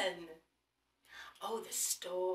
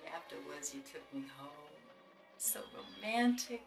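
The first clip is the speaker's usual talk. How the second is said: tender; 2 semitones lower, 4 dB quieter than usual. Acted. Grandma reminiscing tenderly.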